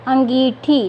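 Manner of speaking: अंगीठी sounded out carefully, nasal first vowel; अंगीठी, stretched syllables, nasal opening; nasal pronunciation demo. Shown as a demonstration. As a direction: say अंगीठी with a nasal start and long ee. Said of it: "अब इसका उच्चारण करते हैं हम".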